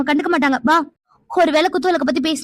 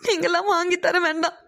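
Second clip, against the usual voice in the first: crying; 4 dB quieter than usual. Acted. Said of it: "நீ அழாத".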